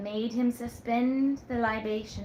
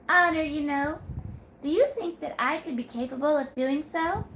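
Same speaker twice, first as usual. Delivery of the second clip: put-on higher, teasing young woman's voice; coy young woman; 4 semitones higher, 3 dB louder than usual.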